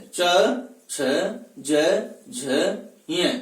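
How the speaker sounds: च, छ, ज, झ, ञ recited singly, tongue to the palate; isolated palatal letters च, छ, ज, झ, ञ, evenly spaced; palatal consonants demo. Shown as a demonstration. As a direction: sound out च, छ, ज, झ, ञ one by one with pauses. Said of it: "जिह्वा तालु से स्पर्श".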